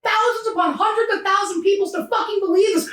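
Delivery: worked-up, indignant venting, pitch climbing; getting emotional. Real, not acted. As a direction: get heated as you recount the accusation. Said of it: "I'm sorry if I'm getting emotional".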